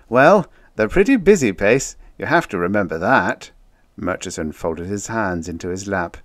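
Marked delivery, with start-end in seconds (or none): 0.1-3.5 admonishing officer. A narrator's reading. Officer excusing the busy control men, admonishing. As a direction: remind him firmly, starting high.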